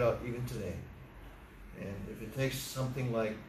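measured, subdued prayer voice; closing prayer. Real, not acted. Preacher asks the Father to bless the lesson, subdued prayer. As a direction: pray aloud for the congregation, evenly and unforced.

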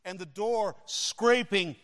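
soft, very quiet suspense narration; hushed storytelling. A narrator's reading. Preacher building suspense for the congregation, hushed narration. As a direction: draw listeners in with a hush.

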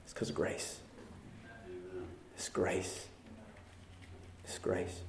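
hushed awe. Acted. Pastor whispering to the congregation that it's grace, hushed. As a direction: let it fall to a breath.

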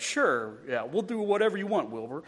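a lightly voiced talking horse, cheerfully going along; a hint of the easygoing TV horse agreeing to anything; Mister Ed. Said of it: "the horse answers like Mister Ed".

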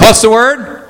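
shouted call to the congregation. Real, not acted. Preacher calling for the congregation's response, shouted. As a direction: rouse them to answer back. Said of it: "Say it like you mean it".

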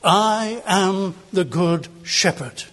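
slow, measured declaration with assurance; sincere authority. Retold or imitated. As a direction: state it slowly and solemnly, fully assured. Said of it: "he says with great sincerity and with great authority".

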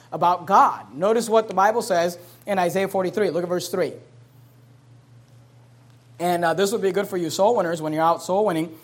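ordinary talk

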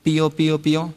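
lightly imitated chick "pío, pío, pío"; a mild chick-sound demo; chick peeping. Shown as a demonstration. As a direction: peep like a little chick. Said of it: "como cuando usted dice".

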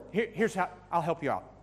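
ordinary delivery

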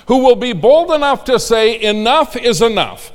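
loud, high rallying cry; roaring rallying speech. Acted. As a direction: build to a roaring climax. Peak of rally.

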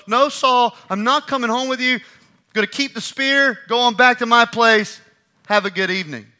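high, loud, cheeky goodbye; breezy loud refusal. Acted. Preacher imagining telling Saul no, cheeky and loud. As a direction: turn him down cheerfully. Preacher voicing his own reply.

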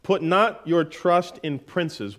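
slow, deliberate scripture reading. Shown as a demonstration. Preacher reading Psalm 146 to congregation, slow. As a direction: read out the verse slowly. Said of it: "verses three through five".

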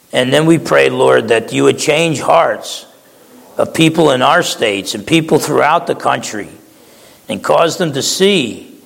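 measured prayer voice with long pauses; closing prayer. Acted. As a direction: pastor praying over the congregation.

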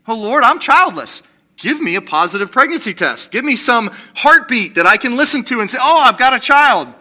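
eager mock prayer. Preacher voicing a childless believer's prayer, eager and pleading. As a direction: beg God for the baby, voice climbing.

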